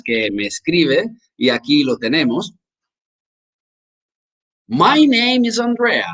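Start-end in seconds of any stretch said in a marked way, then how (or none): 4.7-6.1 high, drawn-out teacher demo; slow English lesson example; slow model phrase. Shown as a demonstration. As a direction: say it slowly and high for learners.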